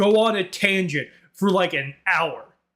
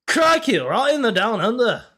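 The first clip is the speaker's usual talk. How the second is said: high, punched Aussie CRIKEY; Australian accent; 5 semitones higher than usual. Shown as a demonstration. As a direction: do a broad, hammed-up Australian. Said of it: "an Australian voice".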